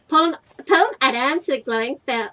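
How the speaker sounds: put-on American accent. Player voices the game's on-screen instruction, American accent. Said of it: "I gave you such an American accent".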